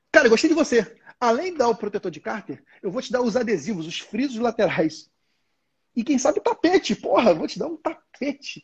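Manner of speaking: mock-generous excitement, stretching the words; hyped-up salesman. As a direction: pile on the gifts like an eager salesman. Acted salesman piling on gifts.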